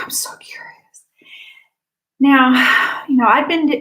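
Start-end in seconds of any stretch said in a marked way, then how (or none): 0.0-0.7 unvoiced whisper; a hushed curious aside. Real, not acted.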